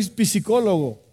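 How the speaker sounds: "psicólogo" with a sounded P and extra i, "pi-si-CÓ-lo-go"; botched "psicólogo", split into "pisi-cólogo"; mispronounced word. Acted. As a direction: say "psicólogo" wrongly as "pisicólogo". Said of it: "No se dice psicólogo".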